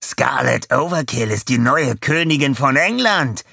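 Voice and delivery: high, loud advert proclamation; announcer call. A narrator's reading. Advert announcer bursting in with news, loud call. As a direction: proclaim it like a TV commercial. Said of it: "rief er".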